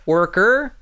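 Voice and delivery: worker with American R, a bit lighter; American R again. Shown as a demonstration. Repeating the word while demonstrating, lighter American R. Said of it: "It's all just about adding R's".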